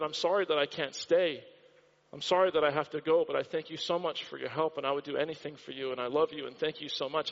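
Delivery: low, subdued imitation of a weeping man; retold tearful thanks. Preacher retelling a homeless man's goodbye, understated tearful thanks. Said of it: "He's just crying and crying and crying".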